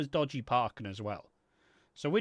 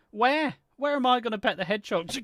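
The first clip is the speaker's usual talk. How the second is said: high, fast disbelieving where; baffled, rushing the question; incredulous; 7 semitones higher, 4 dB louder than usual. Real, not acted. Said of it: "I pet him?".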